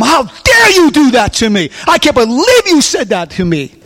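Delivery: acted outraged scolding; indignant rebuke. Whipping someone in the dungeon of your mind, indignant. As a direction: scold as if deeply wronged.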